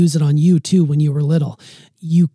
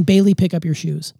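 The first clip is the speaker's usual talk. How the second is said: plain command. Shown as a demonstration. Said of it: "instead of saying".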